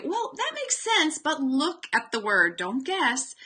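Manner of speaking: bright high coaching prompt to a student; gently steer the reader back to the print; teacher prompt. Shown as a demonstration. Teacher nudging a guessing student to look at the word. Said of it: "is to say".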